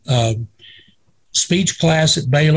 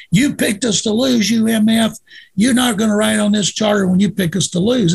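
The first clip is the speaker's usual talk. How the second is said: mild mock yell, pitched up; retold angry screaming; 5 semitones higher than usual. Player berates the writer on the plane, mock-furious. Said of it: "screaming he's gonna throw me off the plane".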